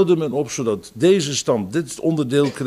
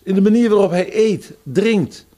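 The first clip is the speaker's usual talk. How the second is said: rising emphasis; 5 semitones higher, 4 dB louder than usual. Real, not acted. Preacher building emphatic list.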